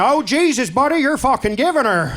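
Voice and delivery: camp it up as a mock lover; east coast variation. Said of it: "hear a variation".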